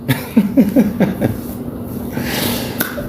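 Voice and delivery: soft unvoiced laugh that falls away; breathy falling laugh after the creek joke. Real, not acted. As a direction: laugh softly at your own joke.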